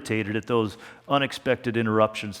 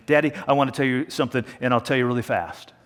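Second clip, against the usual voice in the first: lightly imitating a hurried daughter, quick at first; mildly hurried, quoted plea to a parent; hurried child's request; faster than usual. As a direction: rush into it like a child short on time. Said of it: "she hurriedly began".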